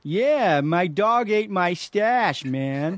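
very slow stoner drawl; Man Stoner. Acted. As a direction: drag the words out like a stoned hippie. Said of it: "I'm gonna be Man Stoner".

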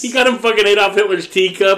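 stunned, rising disbelief; can't believe what he's hearing; shocked disbelief. Real, not acted.

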